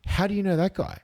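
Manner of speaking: very high-pitched, incredulous removalist; imitated astonishment; amazed question. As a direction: ask it high, as if spotting a celebrity's photo. Removalist spots photo, acted.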